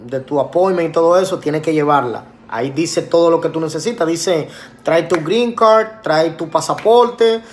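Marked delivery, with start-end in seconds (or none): 4.8-7.4 reading the letter slowly, word by word; lectura lenta. Retold or imitated. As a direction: spell out each requirement deliberately. Lee en voz alta la carta. (leyendo la carta despacio, palabra por palabra)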